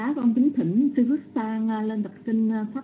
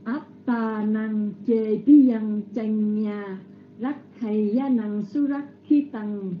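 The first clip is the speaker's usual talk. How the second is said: drawn-out, careful chant of the verse; slow Pali recitation; slower than usual. Acted. Master of ceremonies rereading the verse while waiting, slow chant. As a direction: stretch the syllables like a temple reading.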